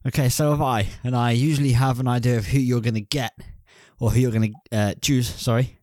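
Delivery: breathless after running; talking while catching breath. Real, not acted. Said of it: "so I'm out of breath".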